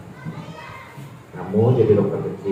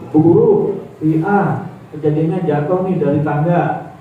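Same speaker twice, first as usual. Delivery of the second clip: pupil reporting to teacher; 5 semitones higher, 3 dB louder than usual. Pretend. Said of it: "kalian akan lapor nih ke ibu guru".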